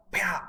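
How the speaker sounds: sudden high "pah" for a clap; imitated clap. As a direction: make a sharp clap noise.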